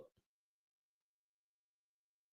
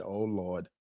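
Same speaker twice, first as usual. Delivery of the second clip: mock Trini accent; 10 semitones lower, 12 dB quieter than usual. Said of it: "I hate that Trini accent".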